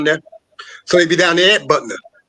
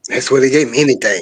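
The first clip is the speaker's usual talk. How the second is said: put-on Jamaican accent; 7 semitones lower than usual. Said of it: "That's my Jamaican accent".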